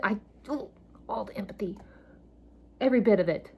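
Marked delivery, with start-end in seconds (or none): 0.0-1.8 choked up. Real, not acted. Overwhelmed, voice fading.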